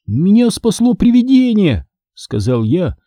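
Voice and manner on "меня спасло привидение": high, insistent call; mildly raised voice over noise. A narrator's reading. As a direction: pitch it up to carry over the fire. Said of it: "стараясь перекрыть треск огня".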